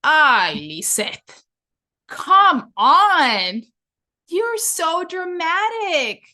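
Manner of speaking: hurried mom snapping at her daughter over ice cream; impatient scolding mom. Retold or imitated. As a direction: scold a crying child while in a hurry. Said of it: "my mom looked back and said".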